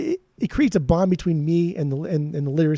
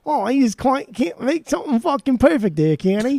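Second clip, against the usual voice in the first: a hammed-up, higher Cockney put-on; mock Cockney, pitched up and playful; Cockney accent; 8 semitones higher, 3 dB louder than usual. Podcaster jokingly quoting the singer in a bad Cockney accent. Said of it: "that's my Cockney accent there".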